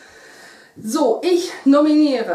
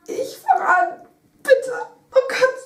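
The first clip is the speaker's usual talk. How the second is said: nervous; 12 semitones higher than usual. Real, not acted. Bracing before the ice water.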